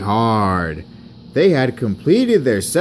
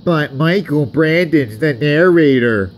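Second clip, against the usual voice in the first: higher, louder huffy protest; huffed; 6 semitones higher, 5 dB louder than usual. A narrator's reading. Peter Sam blames the narrator, huffing. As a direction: object in a huff. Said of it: "huffed Peter Sam".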